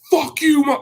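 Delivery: high, strained mock yell, cut off; imitated outburst, not at full volume; retold angry comeback. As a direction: fire back with pitch leaping up. Arguing back, retold.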